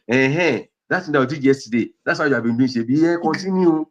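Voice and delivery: sarcastic complaint. Shown as a demonstration. Counsellor showing a spouse's sarcastic complaint, mocking. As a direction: needle them with sarcasm. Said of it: "It's different from".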